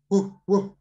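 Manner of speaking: two short spoken woofs; dog bark. Shown as a demonstration. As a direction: imitate a dog barking twice. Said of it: "then we make the sound".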